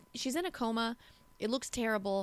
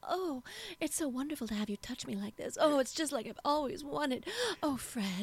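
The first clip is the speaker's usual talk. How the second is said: higher, swooning dubbed-film lover; overdub actress voice; 4 semitones higher than usual. Shown as a demonstration. Showing co-host how overdubs talk, swooning dubbed voice. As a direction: gush over Fred like a dubbed romance heroine. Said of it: "They kinda talk like this".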